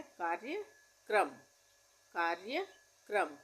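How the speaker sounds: कार्यक्रम drawn out slowly, syllable by syllable; slow dictation. Shown as a demonstration. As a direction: dictate कार्यक्रम at half speed. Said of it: "कार्यक्रम आसान है".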